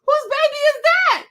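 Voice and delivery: high, loud, hammed-up "whose baby"; mock clueless. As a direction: feign total ignorance, high and loud. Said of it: "I'm like".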